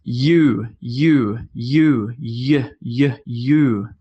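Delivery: "U" said as a long "yoo", starting with a y glide; U sound demo. Shown as a demonstration. Teacher drills the U sound for learners, clear long "yoo". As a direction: model "U" slowly as y plus oo. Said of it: "So this is the".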